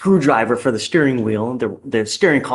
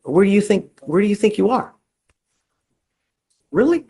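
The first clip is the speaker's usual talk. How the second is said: exasperated scolding; 7 semitones higher than usual. Real, not acted. Judge scolds defendant for interrupting.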